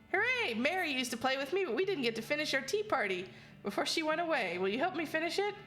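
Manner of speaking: high, gleeful haunted doll; cheerful little ghost doll, unsettling; too calm creepy doll. Acted. Doll voice speaks in game.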